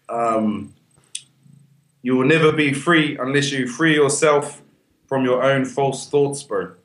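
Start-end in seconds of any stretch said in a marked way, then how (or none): 2.0-6.4 slow recited quote. Retold or imitated. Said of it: "it said".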